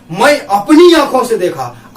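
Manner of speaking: अपनी given extra weight, falling after; stress on अपनी. Shown as a demonstration. Teacher shows students the stress on अपनी. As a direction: press on अपनी. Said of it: "ये यहाँ पर जोर दे रहा".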